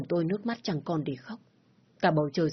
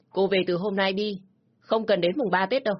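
scornful scolding; 4 dB louder than usual. Acted. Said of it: "Mẹ chồng tôi chỉ trích tôi".

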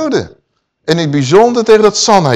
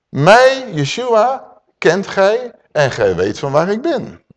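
proclaiming; 5 semitones higher, slower than usual. Acted. Preacher proclaiming Yeshua's words, ringing opening. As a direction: open with a ringing Mij.

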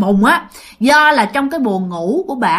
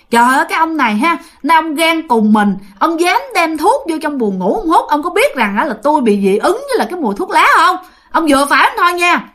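higher-pitched wife telling husband off; retold scolding; 5 semitones higher than usual. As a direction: scold him in mild exasperation, pitched up. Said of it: "Bắt đầu bả chửi". (giọng vợ cằn nhằn mắng chồng)

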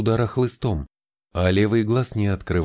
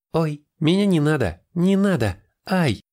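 high squealing giggly protest; being tickled; 9 semitones higher than usual. A narrator's reading. (визг от щекотки)

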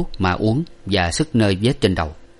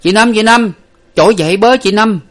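high, loud calls through the door; calling loudly; 13 semitones higher, 8 dB louder than usual. A narrator's reading. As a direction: shout her awake while banging. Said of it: "nói lớn lên rằng".

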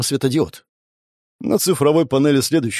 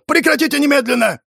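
yelling; 13 semitones higher than usual. A narrator's reading. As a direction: bellow it to break up the fight. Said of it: "заорал он".

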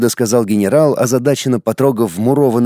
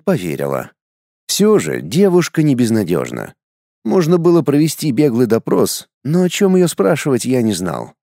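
plain reading voice

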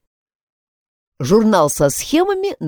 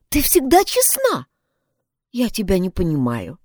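высокий девичий голос с укором; мягко упрекает подругу, голос выше обычного; girl reproaching; 7 semitones higher, 3 dB louder than usual. Acted. Pat voiced, reproaching. (Пат укоряет Изабель за жульничество, высоким девичьим голосом)

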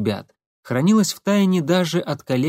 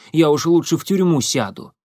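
sarcastic; 4 semitones higher, 4 dB louder than usual. Acted. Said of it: "язвительно проговорил Семён".

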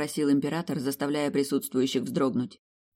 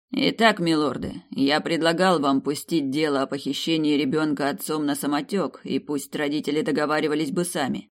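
stern emperor. Acted. Emperor reprimands ministers.

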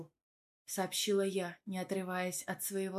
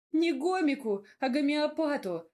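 high, louder pointed correction; correcting; 7 semitones higher, 5 dB louder than usual. A narrator's reading. She corrects Radim's word choice, pointedly. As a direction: set him straight firmly. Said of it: "поправила я Радимку".

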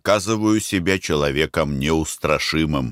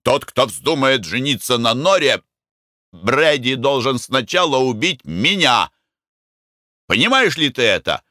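fierce vow; 7 semitones higher than usual. A narrator's reading. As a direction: swear to defend Nora. Narrator vows to fight Mick.

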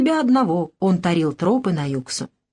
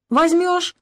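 eager pleading; 11 semitones higher than usual. A narrator's reading. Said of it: "Он так горячо просился".

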